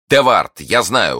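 high, loud blurt; impulsive exclamation. A narrator's reading. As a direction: blurt out the name before thinking. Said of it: "воскликнул Д'Артаньян". (порывистое восклицание)

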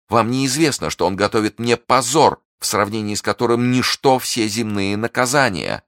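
high, impassioned prisoner; anguished Milady. Acted. Captive woman to her young guard, anguished and high. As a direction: plead with high, dramatic urgency. Milady pleads with Felton in story.

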